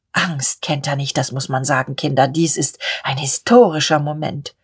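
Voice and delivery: low and solemn admiration; solemn old gentleman. Acted. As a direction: pronounce it with hushed reverence.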